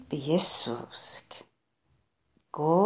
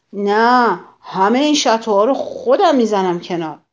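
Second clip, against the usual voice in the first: louder, quick angry yell; grouchy shout; 2 semitones higher, 5 dB louder than usual. Acted. Grouchy ladybug refuses to share, shouting fast. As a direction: bark it out like a spoiled bully. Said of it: "فریاد زد".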